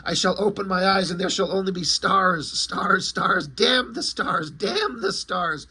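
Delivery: mock tormented outcry without full volume; hammed-up comic-book anguish; retold screaming.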